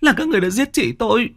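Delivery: put-on girl confronting her sister's killers; grieving accusation. A narrator's reading. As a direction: hurl the blame at them.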